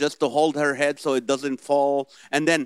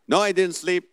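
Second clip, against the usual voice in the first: mildly mock-indignant mom, a bit raised; indignant denial; 3 semitones higher, 4 dB louder than usual. Elderly mom answering her son, mildly indignant denial. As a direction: insist lightly as the caught-out mom. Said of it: "deny that they fell asleep".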